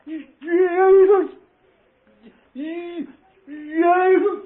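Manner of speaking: high, loud fervent cry; shouting Jesus. Retold or imitated. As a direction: call out the name with all you have. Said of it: "I heard old Willie's voice say".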